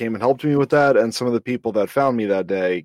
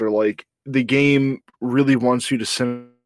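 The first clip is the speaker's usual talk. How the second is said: audio cutting out. Real, not acted. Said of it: "your audio just really cut out there".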